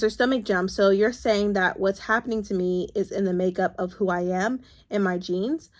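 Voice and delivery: steady read-aloud from a novel. Acted. Vlogger reads a book passage to her viewers, steady reading voice.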